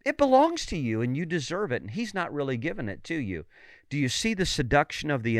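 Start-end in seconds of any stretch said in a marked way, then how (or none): 0.0-3.4 a hint of a sly deceiver; lightly voiced tempter. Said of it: "He sowed the seed that".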